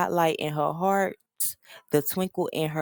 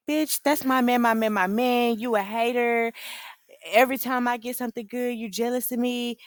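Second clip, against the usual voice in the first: defensive squeal; 7 semitones higher than usual. Retold or imitated. Girlfriend defending her man, high indignant squeal. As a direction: snap back at a hater, pitched up. Recapping reality show, Jen defensive.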